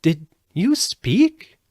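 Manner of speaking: high, slow, amazed question; in wonder. A narrator's reading. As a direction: ask it in wide-eyed wonder. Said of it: "asked the girl in wonder".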